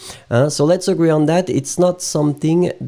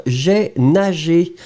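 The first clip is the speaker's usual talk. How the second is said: slow but more connected "j'ai nagé"; model repeated slowly; 2 semitones higher, slower than usual. Shown as a demonstration. Repeats the verb form after checking.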